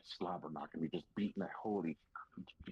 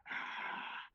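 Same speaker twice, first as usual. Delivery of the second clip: imitated crowd roar; 4 dB quieter than usual.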